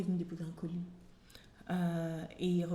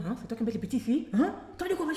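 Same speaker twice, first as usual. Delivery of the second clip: put-on African village accent; 3 semitones higher, 4 dB louder than usual. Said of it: "Avec tout l'accent du bled".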